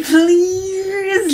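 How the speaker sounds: a mild, pleading no; captain begging the first officer not to, mild panic; protesting captain. Acted. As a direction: beg him to stop the announcement. Martin begs Douglas.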